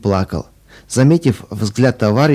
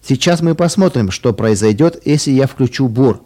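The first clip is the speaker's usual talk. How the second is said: mild narrated shout; 3 semitones higher than usual. Acted. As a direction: call it out, lightly raised. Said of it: "и крикнул".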